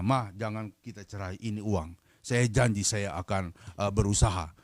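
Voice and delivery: low, soft husband's promise, retold; soft plea. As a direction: quietly act out a husband making peace. Husband pleading with his wife. (menirukan suami membujuk, pelan dan rendah)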